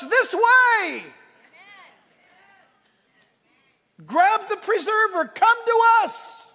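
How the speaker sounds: high, loud call across the water; rescuer shouting. Retold or imitated. Pastor voices a rescue boat calling to a sinking ship, loud and high. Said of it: "a rescue vessel comes up and shouts".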